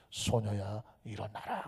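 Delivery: hushed, low command; 속삭이듯. Shown as a demonstration. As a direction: murmur it softly for emphasis. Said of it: "내가 속삭인다고 여러분도 속삭이냐고". (낮고 작게 속삭이듯)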